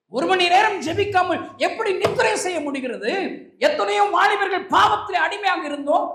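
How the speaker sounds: high, loud pulpit exhortation; impassioned preaching. Real, not acted. Preacher rebukes believers for sleeping while souls are bound, impassioned.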